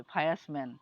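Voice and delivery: ফায়ার্স ম্যান read out as a poor reader's "fa-yas man"; mock learner's ফায়ার্স ম্যান, sounded out wrongly; imitated misreading. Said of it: "এখন অন্যরা হাসবেন এটা শুনলে".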